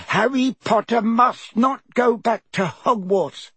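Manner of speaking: high squeaky elf voice, humble and anxious; a trembling servant elf pleading; house elf Dobby. A narrator's reading. House elf Dobby explains his lot to Harry, high squeaky elf voice.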